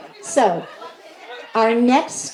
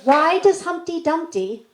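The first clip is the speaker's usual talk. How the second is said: bouncy joke voice; 8 semitones higher, 4 dB louder than usual. Acted. Joke setup and punchline.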